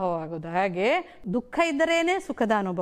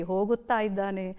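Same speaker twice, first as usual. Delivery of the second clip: ಹೋಗುತ್ತಾ ಇದ್ದಾನೆ as two words, lower and softer; words separated; 5 semitones lower, 5 dB quieter than usual. Shown as a demonstration. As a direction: softly set ಹೋಗುತ್ತಾ apart from ಇದ್ದಾನೆ. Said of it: "ಪದ ವಿಂಗಡಣೆ ಕಲ್ತಿದ್ದೀರಲ್ಲ". (ಹೋಗುತ್ತಾ, ಇದ್ದಾನೆ ಎಂದು ಪದ ಬಿಡಿಸಿ, ಮೆಲ್ಲಗೆ)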